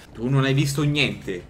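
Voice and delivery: slow menacing threat; mock tough guy. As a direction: lean in like a mobster. Fa il gangster al personaggio. (minaccia da finto boss)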